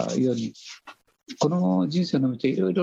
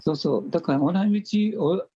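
hoarse, scratchy voice; 4 semitones higher, faster than usual. Real, not acted. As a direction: speak through a hoarse throat. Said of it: "声がかすれてごめんなさい".

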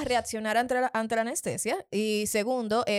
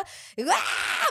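retold scream; 7 semitones higher than usual. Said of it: "yo grité más que una chiva".

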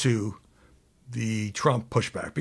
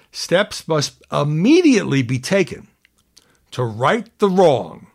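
slow and louder, stamping each word; all caps; 3 semitones higher, 5 dB louder, slower than usual. Retold or imitated. Anchor reading Trump's all-caps demand, slow and louder. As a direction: punch the capital letters. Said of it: "all caps".

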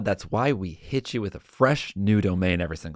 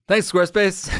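mock cheer; 10 semitones higher, 4 dB louder than usual. Real, not acted.

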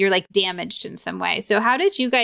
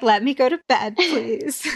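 pleading sleepy husband; 5 semitones higher than usual. Retold or imitated. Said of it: "he's just like".

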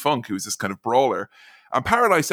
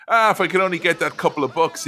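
plucky guy; 5 semitones higher than usual. Retold or imitated. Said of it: "he's like the plucky guy".

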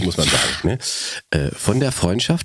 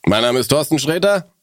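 Thorsten Sträter impression; 3 semitones higher than usual. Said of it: "Thorsten, er meint es nicht so".

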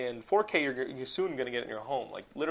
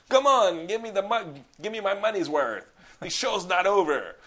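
higher, louder mock taunting yell; villain taunt shout; 7 semitones higher, 8 dB louder than usual. Villain taunting Stallone during the fight, a loud mock yell. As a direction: roar the taunt like a gloating villain.

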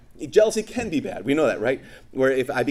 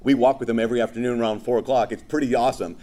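sarcastic duh; 4 semitones lower than usual. Acted. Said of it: "she's like".

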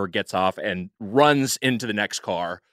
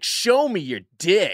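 mock woman on the train; 6 semitones higher, slower than usual. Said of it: "and is like".

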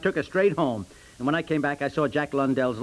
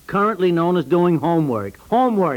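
aghast emphasis; 5 dB louder than usual. Acted. Reads shocking definition.

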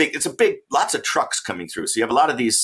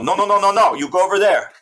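1 guard's refusal; 9 semitones higher, 4 dB louder than usual. Retold or imitated. Guards waving him away.

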